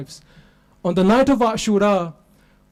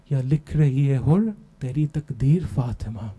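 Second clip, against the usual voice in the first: recited poem; 3 semitones lower than usual. Acted. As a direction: intone the couplets like a mourning poem.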